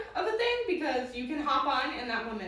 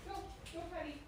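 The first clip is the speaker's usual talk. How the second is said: high dog command; 6 semitones higher, faster than usual. Real, not acted. Telling dog to go potty.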